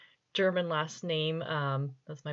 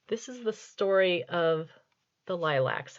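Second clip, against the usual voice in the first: serious reading. Shown as a demonstration. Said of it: "I'm going to do this as a very serious reading".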